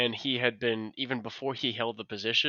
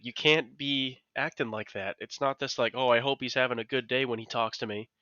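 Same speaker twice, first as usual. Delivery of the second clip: stern dad. Real, not acted. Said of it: "The dad in you came out".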